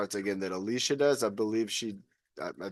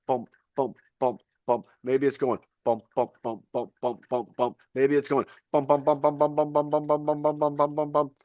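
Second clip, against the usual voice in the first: steady rhythmic bump bump like a heartbeat; heartbeat sounds. Shown as a demonstration. Host showing viewers a resting heartbeat, rhythmic bumps. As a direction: thump out a calm pulse. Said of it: "You'll actually feel your heart beating".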